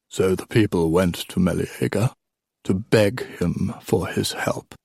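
put-on measured old king breaking off to check; old king storytelling. Old king interrupting his tale for Achilles, lightly voiced.

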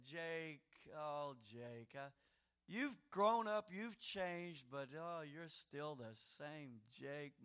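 a father shaking his head with a smile; fond father. Acted. Father gently teasing his grown son, fond and soft. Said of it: "like a father with a slight grin, kind of shaking his head".

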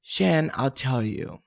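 slow, earnest imitated confiding; gently imitating a genuine, heartfelt answer; sweetly sincere. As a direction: confide it slowly, as if looking right at them. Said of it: "super genuine, you know, stare in your eye".

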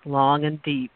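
purple prose reading. Acted. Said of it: "I'm going to read it as purple as possible".

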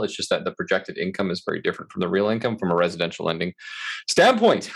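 running out of breath; words pushed out on the last of the air. Real, not acted. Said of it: "Oh my God, I'm running out of breath here".

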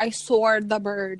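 New York SAW with an added R, drawn out; New York accent. Retold or imitated. Showing a friend how New Yorkers say it, New York accent. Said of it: "And they're like".

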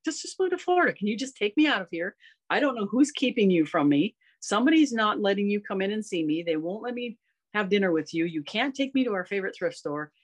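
a light high pleading voice for her confused mother. Retold or imitated. Mother in memory care pleading with daughter, lightly voiced. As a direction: gently beg to be taken home.

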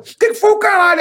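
high, furious snap back; angry retort. Retold or imitated. Angry sidekick snapping at the hero before a punch. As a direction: pick a fight with the boss. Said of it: "Ele falou".

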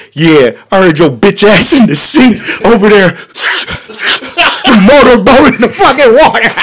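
high, laughing mock; brother laughing. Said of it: "my brother like".

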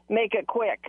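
mock a man's low, brief reply; deep voice. Star brusquely answering a fan's photo request, deep voice. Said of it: "he says in this deep voice".

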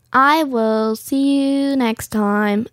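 slow, even robot voice. Real, not acted. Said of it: "I sounded like a robot".

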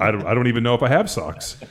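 put-on a kid who honestly doesn't know about socks; clueless daughter. Dad voicing daughter's clueless reply.

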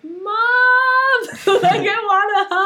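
put-on high, loud, whiny little kid calling Mom; three-year-old child. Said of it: "if I'm a little three-year-old".

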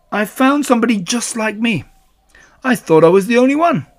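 high, loud Tigger voice; Tigger, amazed. Acted. Tigger discovers his reflection and tells Pooh, high and amazed. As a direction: marvel in a high-pitched animal voice. Tigger sees himself in mirror.

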